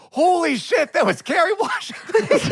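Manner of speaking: high shocked shout; screamed realization. Retold or imitated. Husband hears him shout the caller's real name in shock. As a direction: yell it as it all clicks. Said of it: "I jumped up and I screamed".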